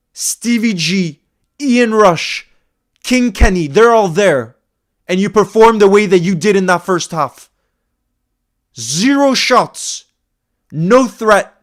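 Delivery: pissed-off, seething, furious, fuming rant. Reacting to a club's first half in a final at Wembley, pissed off and fuming. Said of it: "that I'm pissed off".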